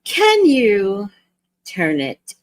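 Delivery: a hint of an entitled passenger; imitating the woman. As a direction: mimic the annoyed stranger, nagging. Woman on plane complains.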